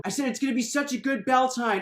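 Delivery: shouting it again over the crowd; mock shout. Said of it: "He's shouting".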